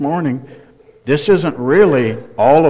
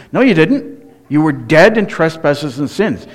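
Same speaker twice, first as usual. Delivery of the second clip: sharp rebuttal; 3 semitones higher than usual. Real, not acted. Preacher rebuts the claim.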